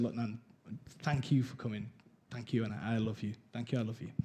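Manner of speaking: softly retold loving goodbye; tender thanks. Grandson thanks his nan as she leaves early, tender.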